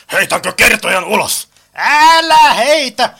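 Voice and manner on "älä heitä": loud, high, drawn-out cry; urgent protest. Acted. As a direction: cry out to stop them, stretched and high. Protests at throwing the narrator out. (kova, korkea kieltohuuto)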